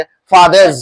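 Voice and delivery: फादर्स ending in a voiced "z"; final z sound. Shown as a demonstration. Teacher drills the class to repeat, final z sound. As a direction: say फादर्स as "fatherz". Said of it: "यहाँ पे ज pronounce करेंगे".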